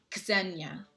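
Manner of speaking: "Ksenia" with a clear KS at the start; name pronunciation. Shown as a demonstration. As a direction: sound out the KS in "Ksenia". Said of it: "I always remember the X sound".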